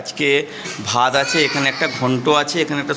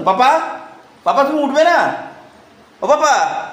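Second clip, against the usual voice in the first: তোতলা আদুরে ডাক; 8 semitones higher, slower than usual. Real, not acted. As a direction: coax the little one sweetly in a raised voice. Mother coaxing toddler to get up.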